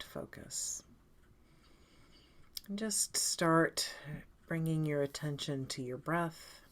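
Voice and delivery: calm, unhurried guided meditation with long pauses; lightly soothing meditation leader, leaving space between phrases. Acted. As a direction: gently guide them into breath and body.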